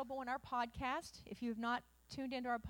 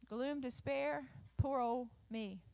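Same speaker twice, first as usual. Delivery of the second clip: slow, sighing mock self-pity; slower than usual. Preacher mocks a self-pitying Elijah, slow and sulky. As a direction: drag it out like a sulking prophet.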